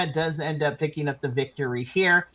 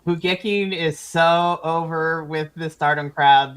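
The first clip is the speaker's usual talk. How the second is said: ordinary delivery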